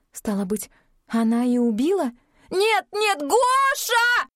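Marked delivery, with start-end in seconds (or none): 2.5-4.3 very high, loud desperate scream; panicked scream. A narrator's reading. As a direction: scream as never before in her life. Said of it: "Ирина орала так".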